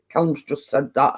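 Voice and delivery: ventriloquist-style, lips kept still; lips barely moving. Shown as a demonstration. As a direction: say it without moving your lips. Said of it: "I said that without moving my lips".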